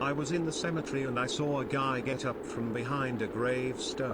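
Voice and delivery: flat text-to-speech voice; synthetic robotic reading. Real, not acted. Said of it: "It doesn't really work when it's a robotic voice saying it out loud".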